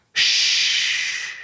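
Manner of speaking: whispered shush. Acted. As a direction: hush him gently to sleep. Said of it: "she whispered".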